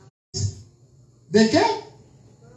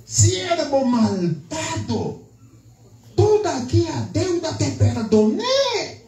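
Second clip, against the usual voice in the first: angry lord. Acted. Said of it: "dice el Señor enojado". (señor enojado reprendiendo al siervo, lento y severo)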